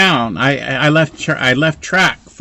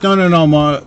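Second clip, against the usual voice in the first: louder, higher hurried no no no; alarmed pleading; 5 semitones higher, 6 dB louder than usual. Retold or imitated. Assistant begging Mark not to shoot, alarmed pleading. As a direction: stop him fast, a little panicked.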